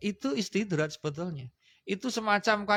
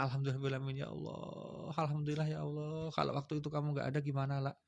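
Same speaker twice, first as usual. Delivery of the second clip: soft prayerful thanks; 5 dB quieter than usual. Shown as a demonstration.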